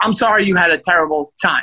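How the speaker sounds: imitated defensive tone. Retelling a friend's reply to criticism: imitating a defensive reply. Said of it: "She gets very defensive".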